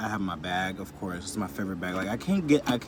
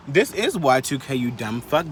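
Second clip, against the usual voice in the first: louder, sharp comeback to a hater; louder scolding, fed up with the hater; annoyed retort; 4 semitones higher, 5 dB louder than usual. Retold or imitated. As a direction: tell the commenter off, loud and fed up. Angry rant at a commenter.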